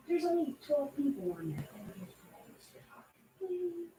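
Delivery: high, soft coaxing plea; pleading. Real, not acted. Wife begging her shy husband on camera, high and soft. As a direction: coax him sweetly to come say hi.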